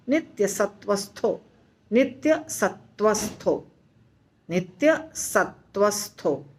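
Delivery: slow, unbroken नित्य सत्वस्थो with सत्वस्थो said as one word; joined recitation. Shown as a demonstration. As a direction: recite नित्य सत्वस्थो slowly without splitting सत्वस्थो. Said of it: "ऐसे ही बोलना है". (नित्य सत्वस्थो को बिना तोड़े धीरे बोलें)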